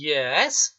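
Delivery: Yes stretched out as a question; questioning intonation. Shown as a demonstration. Teacher showing an answer that holds a question, questioning Yes. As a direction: draw out Yes so that it asks back. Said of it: "सिर्फ intonation tone की".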